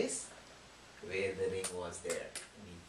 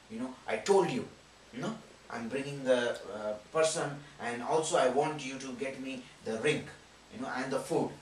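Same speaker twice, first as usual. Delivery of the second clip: louder demanding father, a touch of anger; mildly angry father scolding his daughter; father demanding the ring and food from his daughter, mildly angry; 2 semitones higher, 6 dB louder than usual. Acted. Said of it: "he was furious, he was very angry".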